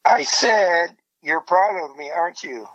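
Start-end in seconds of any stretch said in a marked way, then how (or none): 1.2-2.7 muffled, like through a cup. Real, not acted. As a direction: talk into a cup. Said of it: "You're talking into a cup".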